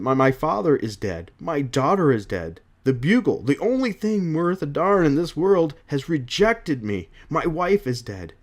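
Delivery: emphatic acted lament, no sobbing; hurt, forceful outpouring; distraught Jonah Jameson. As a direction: list the losses with mild anguish. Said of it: "Jonah there crying".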